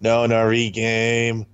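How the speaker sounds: slow, drawn out. Shown as a demonstration. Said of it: "repeating name slowly".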